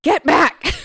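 high, loud theatrical shout; sudden high-pitched yell. A narrator's reading. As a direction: shout it in hammed-up alarm. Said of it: "shouted Press".

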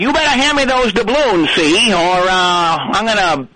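put-on gangster voice, old movie style; tough-guy mobster talk, see; thirties mob guy. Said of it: "like a thirties mob guy".

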